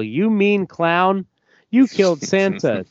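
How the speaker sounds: put-on furious girl's shout; yelling. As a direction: scream the accusation at him. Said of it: "yells at him as well".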